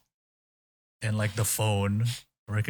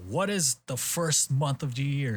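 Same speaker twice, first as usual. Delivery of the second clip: higher-pitched, lightly put-on quizmaster; quiz questioner; 6 semitones higher than usual. Host retelling Nogichu quiz question, quizmaster. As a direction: pose it like a show question.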